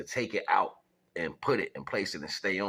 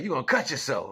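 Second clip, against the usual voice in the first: loud, raised-pitch grandfatherly warning; mock warning; 10 semitones higher, 7 dB louder than usual. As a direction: warn the kid in a high, loud retold voice. Grandfather warns child, acted.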